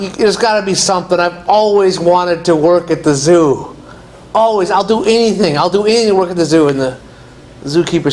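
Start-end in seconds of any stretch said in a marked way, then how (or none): 0.0-6.7 higher, fast and pleading; eager begging. Acted. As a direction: beg like your dream depends on it. Guy begs zookeeper for job.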